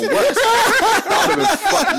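real laughter climbing high through the words; laughing protest. Real, not acted. Reacting to friend's film guess, laughing protest.

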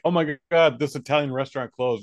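hammed-up outrage at a minor loss; mock dismay. Diner mourning a closed Italian restaurant, mock dismay. Mocking upset San Francisco diners.

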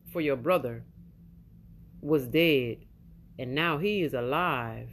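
slow, low, gentle father reassuring his son; tender father. Acted. Father's words read from Scripture.

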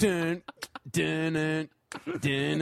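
sung-out "dun" soundtrack notes; mock soundtrack, spaced notes; imitated commercial music. Podcaster scoring an imagined cupcake commercial, imitated music.

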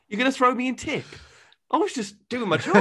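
put-on high northern accent chair voice; a chair pleading in a northern accent; northern English accent, high and pleading. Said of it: "tried to get a northern accent".

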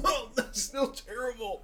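strained, pained and slow; pained groan. Real, not acted. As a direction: push it out through the burn. Pained after spicy bite.

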